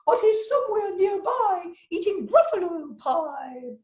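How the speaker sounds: high, sly snake voice. Acted. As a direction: play the snake teasing the mouse. Character voice in read story.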